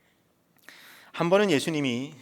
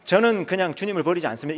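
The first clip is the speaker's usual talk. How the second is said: sincere vow; 6 semitones higher, 6 dB louder than usual. Shown as a demonstration. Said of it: "이렇게 말씀드릴 수 있잖아요".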